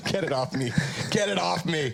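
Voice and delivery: playfully begging them to stop; mock plea. Real, not acted. Host begging the co-hosts to stop, mock plea.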